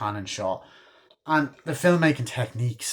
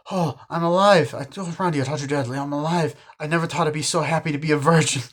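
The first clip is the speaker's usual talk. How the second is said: joyful relief; 5 semitones higher, 4 dB louder, faster than usual. Retold or imitated. Randy wakes up alive.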